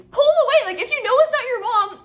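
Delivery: high-pitched exasperated outburst; urgent, incredulous scolding; exasperated urging. Real, not acted. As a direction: plead in disbelief, voice jumping up. Exasperated at the storyteller's blunder.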